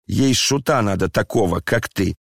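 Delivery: usual speaking voice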